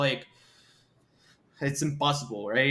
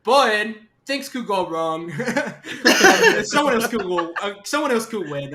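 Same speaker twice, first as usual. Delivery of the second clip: laughing; 6 semitones higher, 5 dB louder than usual. Real, not acted. Laughing after hero boast.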